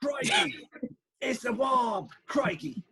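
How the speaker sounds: high, hammed-up Australian crocodile-hunter shout; badly faked Australian yelp; bad Australian accent. Co-host mimicking the crocodile hunter, exaggerated Australian accent. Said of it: "I can't do an Australian accent".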